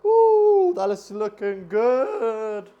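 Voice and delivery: high, loud, slowed-down cheer; excited whoop. Real, not acted. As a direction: whoop at the perfect pour. Coffee pour comes out great.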